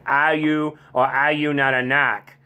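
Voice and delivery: imitating a Boston movie guy; Boston accent. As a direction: ask it in Boston dialect, dropping the R. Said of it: "one of those accents".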